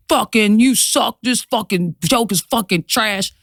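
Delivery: mildly worked-up mock insult; retold hateful comment. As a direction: imitate a hostile commenter laying into someone. Acting out a hateful online comment.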